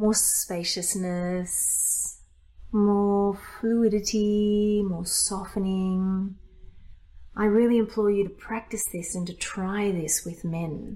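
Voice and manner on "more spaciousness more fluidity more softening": flowing feminine tone, very drawn out. Teaching a switch back from a masculine to a softened feminine voice. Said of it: "let's go feminine again".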